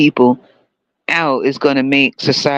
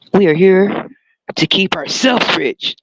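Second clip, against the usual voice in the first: mock politician; 3 semitones higher, slower than usual. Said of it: "I think they forget the mics are on".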